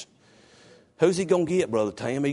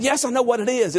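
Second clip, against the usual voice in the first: raised pitch without the shout; less harsh retort; 9 semitones higher than usual. Retold or imitated. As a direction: imitate an insistent reply, toned down from yelling. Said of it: "I didn't say it in a harsher tone".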